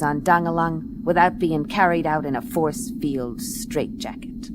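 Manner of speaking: dry, deadpan private-eye voiceover; hardboiled narration. A narrator's reading. Detective narrating her case over music, dry voiceover. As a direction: tell it like a weary gumshoe.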